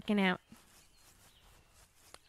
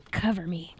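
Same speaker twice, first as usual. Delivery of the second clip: whispering; 4 semitones lower than usual. Real, not acted. Whispered tactical request.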